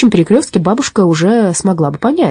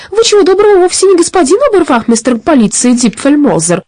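put-on high, louder old lady's accusation; indignant old granny; 10 semitones higher, 4 dB louder than usual. A narrator's reading. Granny confronting the disguised robber, indignant.

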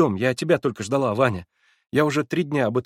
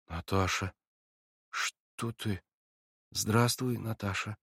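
much softer, hushed and hesitant; timid and scared; 8 dB quieter, slower than usual. A narrator's reading. Alyosha greeting Natasha timidly, softly and scared. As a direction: approach her gently, afraid of her. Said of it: "робко проговорил он с каким-то испугом".

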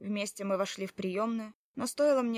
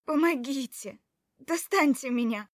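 higher, loud desperate cry for help; trapped in a stall, crying out for help; calling for help; 4 semitones higher, 7 dB louder than usual. Acted. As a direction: shout through the locked door. Trapped woman cries for help.

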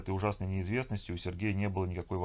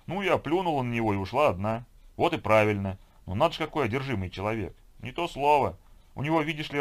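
louder, lifted griping voice; indignant friend; 3 semitones higher, 6 dB louder than usual. Acted. Woman venting about her workaholic man, indignant. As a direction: complain with exasperated punch on the key words.

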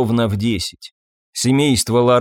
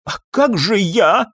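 wailing; 7 semitones higher, slower than usual. A narrator's reading. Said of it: "завопил профессор".

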